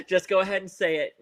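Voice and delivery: laughing through the words; giggling as she talks. Real, not acted. Laughing while speaking.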